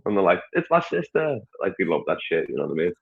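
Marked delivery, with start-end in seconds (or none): 0.5-1.4 high-pitched mock child voice; protesting kid. A kid answering the comedian's couple joke, mock protest in a high voice. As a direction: imitate a kid's indignant reply, pitched up.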